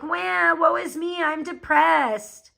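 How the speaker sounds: mock whiny crying. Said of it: "are all like".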